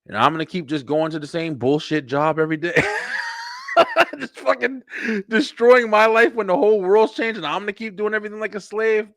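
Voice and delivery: laugh-cry through the complaint about the job; laughing rant. Real, not acted.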